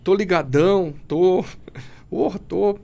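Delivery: louco gritado bem mais alto; bravata de drogado. Retold or imitated. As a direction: se gabe como quem está chapado. Imita a si mesmo drogado. (recriando a própria euforia da droga)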